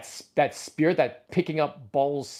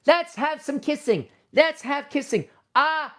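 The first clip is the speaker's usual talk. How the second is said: put-on high playful baby-talk; cutesy toy play voice; 10 semitones higher, slower than usual. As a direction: play with toys like a child. Playing with plush toys.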